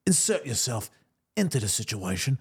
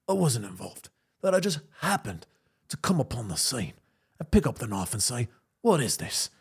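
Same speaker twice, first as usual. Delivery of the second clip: lightly voiced calm tough guy, barely shifted; Jason Statham impression. Suspect talking his way past a cop, mild Statham voice. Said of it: "Jason Statham impression".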